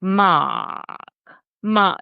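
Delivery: light Boston drawl, "Mark" stretched long with the r dropped; dragged Bostonian "Mark". Retold or imitated. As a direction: drag "Mark" out Boston-style, lightly imitated. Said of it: "she drags it out. It's, like, Bostonian".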